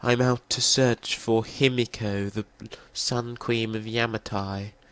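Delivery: slow, bad, overly traditional put-on English accent. Imitating how the game's voice actor played Lara: Lara's traditional English accent. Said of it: "it was a bit too traditional English".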